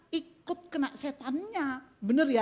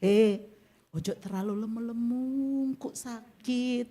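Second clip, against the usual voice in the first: harsh blunt warning; 4 semitones lower, slower than usual. Shown as a demonstration. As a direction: snap "ojo terlalu lemu-lemu" like a careless nag. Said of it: "Loh, beda". (teguran ketus dan kasar)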